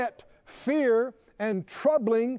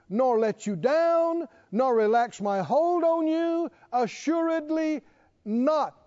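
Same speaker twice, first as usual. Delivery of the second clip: preaching at full force; 3 semitones higher than usual. Real, not acted. Preacher proclaiming God's promise to the church, ringing out high. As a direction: thunder the promise over the congregation.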